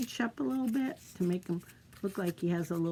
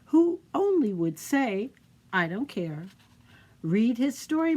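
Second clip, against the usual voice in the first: storybook reading; 4 dB louder than usual. Acted. Reads storybook to children.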